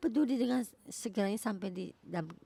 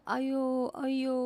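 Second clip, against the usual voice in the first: louder, higher drawn-out coaxing call; coaxing woman; 6 semitones higher, 6 dB louder than usual. Retold or imitated. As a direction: imitate a woman urging her man on. Acts out the woman coaxing Samson.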